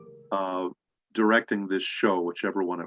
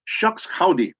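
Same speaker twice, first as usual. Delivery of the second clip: much higher put-on cowboy catchphrase; imitated catchphrase greeting; 9 semitones higher, 3 dB louder, slower than usual. Director greets actor with his catchphrase, in high put-on voice. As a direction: toss out the cowboy line in a high voice. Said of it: "Mary looks at me and says".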